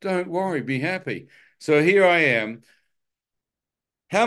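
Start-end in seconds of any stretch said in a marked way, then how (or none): 0.0-1.3 mock cheerful taunt. Mock comforting while strangling.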